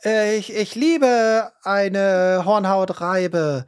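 fake delight. Acting fake gratitude over gift.

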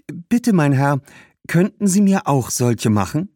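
put-on high, sweetly polite girl's voice; friendliest voice. A narrator's reading. Girl asking the shoemaker for shoes, in her friendliest voice. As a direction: ask as nicely as you can. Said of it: "mit ihrer freundlichsten Stimme".

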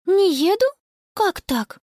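put-on high, puzzled girl's voice; surprised girl. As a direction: sound caught off guard. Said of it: "удивилась Конни".

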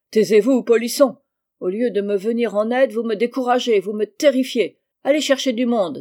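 loud, exasperated reprimand; angry scolding. Acted. Stuck schoolmaster silencing a pupil and demanding help, angry scolding. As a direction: cut the pupil off and give orders.

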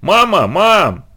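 high, drawn-out wail for mum; wailing call. Acted. Girl runs home wailing for her mother. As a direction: wail for mother while running. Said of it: "на бегу вопила она".

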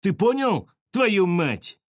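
high, loud challenge; angry cursing. A narrator's reading. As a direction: snarl the curse at a rival. Enraged Petka curses his rival.

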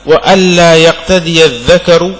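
slow, deliberate reading of a scholarly text; measured, emphatic recitation of a book passage; reading a text aloud. Acted. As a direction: read it out slowly, drawing out the words. Reads the book's text aloud.

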